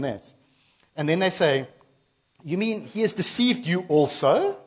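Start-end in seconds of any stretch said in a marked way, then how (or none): 2.4-4.6 higher, louder, sharp retort. Retold or imitated. Pharisees snapping at the guards, a loud scornful retort. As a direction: fire back in scorn. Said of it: "the Pharisees retorted".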